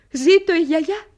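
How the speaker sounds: loud, rising cry; cheerful loud toast; joyful cheer. Acted. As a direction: toast the grandmother. Cheers for grandmother.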